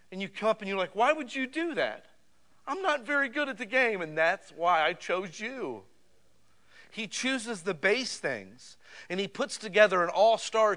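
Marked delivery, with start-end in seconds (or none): 0.9-5.9 higher, puzzled mock voice of an unsure player; doubtful chosen player. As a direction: ask it like a kid who can't believe he got picked. Believer voiced answering Jesus.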